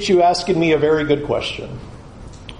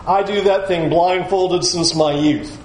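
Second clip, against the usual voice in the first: smug boast; 4 semitones lower than usual. Retold or imitated. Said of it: "come to the law of Moses and go".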